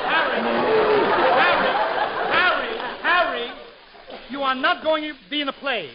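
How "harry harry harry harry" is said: calling out. Real, not acted. The speaker calling Harry to stop.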